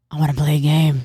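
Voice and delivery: lightly voiced movie villain catchphrase; Saw. Retelling his joke about her looks, light villain impression. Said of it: "it's just Saw".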